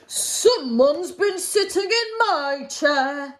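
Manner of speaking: a hint of a gruff growl, slowly; lightly voiced grumbling Father Bear; mild growl of Father Bear. Storyteller voicing Father Bear, a mild slow growl. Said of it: "growled Father Bear".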